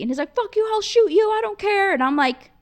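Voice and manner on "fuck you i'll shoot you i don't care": high, loud angry retort; worked-up retold shouting; heated threat. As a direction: fire the threat back, re-enacting a row. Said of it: "We're going crazy".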